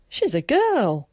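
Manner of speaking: as if it were unthinkable; cried out. A narrator's reading. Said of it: "cried George".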